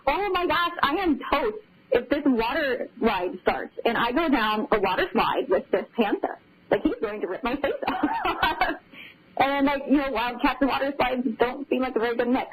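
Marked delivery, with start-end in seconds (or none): 0.1-8.8 laughing panic. Retold or imitated. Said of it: "You were laughing a lot".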